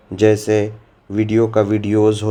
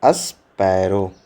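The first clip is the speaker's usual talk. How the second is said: slow model word; 4 semitones lower, much slower than usual. Shown as a demonstration. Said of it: "क्या है?".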